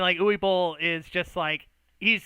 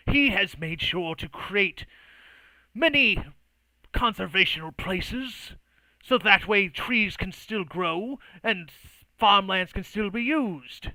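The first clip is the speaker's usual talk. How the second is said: emphatic, higher-pitched debating voice; argumentative retort; 4 semitones higher, 4 dB louder, slower than usual. Acted. Rivals disputing over the forests, emphatic. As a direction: stretch the key words as you argue. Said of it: "And she goes".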